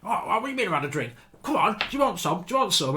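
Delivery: high, yappy little-dog challenge; Scrappy Doo bravado. Retold or imitated. Drunk mate squaring up to ten lads, high Scrappy Doo bravado. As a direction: puff up like a tiny cartoon pup spoiling for a fight. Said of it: "he jumps in like Scrappy Doo".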